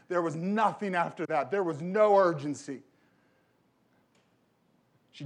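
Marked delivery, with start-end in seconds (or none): 0.1-2.8 emphatic, louder, hammering the point; louder insistence. Real, not acted. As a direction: drive the line home louder. Pastor repeating his regret, building.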